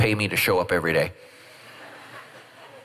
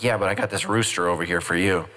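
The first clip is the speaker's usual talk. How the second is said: Lord's voice; 5 semitones lower than usual. Pretend. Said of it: "And the Lord's like".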